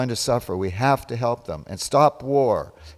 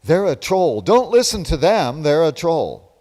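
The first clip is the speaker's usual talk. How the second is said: higher, louder alarmed mimicry; mock warning cry, pitched up; mock online accusers; 4 semitones higher, 5 dB louder than usual. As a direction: imitate people crying troll, higher and louder. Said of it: "they'll say".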